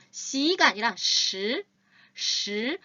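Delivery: 시 said slowly with the tongue curled; 시 said as a retroflex shi, slow. Shown as a demonstration. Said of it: "그래서 십도요".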